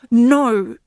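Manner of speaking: a sharp, loud no; fierce. Acted. Yenny fiercely refusing the great ship's words, loud. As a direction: bite it off fiercely. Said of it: "said Yenny fiercely".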